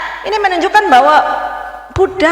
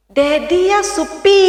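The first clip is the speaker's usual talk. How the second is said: slow, drawn-out Rote speech with a clear De up front; Rote accent; 3 semitones higher, much slower than usual. Shown as a demonstration. Preacher demonstrating Rote speech to the congregation, slow Rote accent. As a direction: show the congregation how a Rote person talks, in Rote accent. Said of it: "coba perhatikan kalau saya bicara ... seperti gini".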